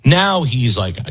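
ordinary talk

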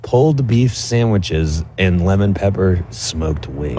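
hushed golf announcer voice. Acted. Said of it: "why are we using that voice today".

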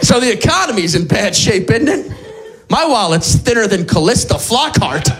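same joke retold as if new, lightly played; mock forgetful repeat. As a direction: repeat it as if you forgot you told it. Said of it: "my next joke has Alzheimer's disease".

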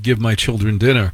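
ordinary talk

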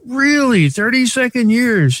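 high, exaggerated Italian car dealer voice; Italian accent. Car dealer answers the caller, in a heavy Italian accent. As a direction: mimic the Philly dealer's thick Italian accent. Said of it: "very heavy Italian accent".

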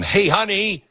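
high sing-song hey honey; chirpy call to spouse. Retold or imitated. Host acting an owner calling his wife, chirpy. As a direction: call out cheerfully.

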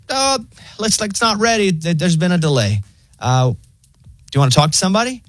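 high, laid-back phone bot; breezy automated assistant; chill robot voice. Retold or imitated. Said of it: "it's so weirdly chill".

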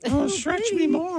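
affected voice. Pretend. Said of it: "Did you affect a voice?".

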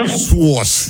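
sauce clipped to one syllable; short flat Sauce; plain sauce. Shown as a demonstration. Host repeats his sauce to co-host. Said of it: "three syllables in there".

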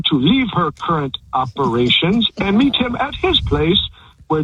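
stiff robot with beeps. Acted. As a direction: talk like a malfunctioning robot. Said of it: "you have to do it sounding like a robot".

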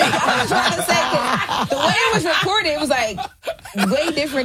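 talking through real laughter, pitched high; can barely get words out for laughing; cracking up at the guest's story. Real, not acted.

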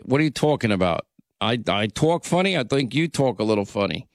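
imitating his old New York accent; thick New York accent. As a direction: talk back in New York vowels. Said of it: "how thick my New York accent was".

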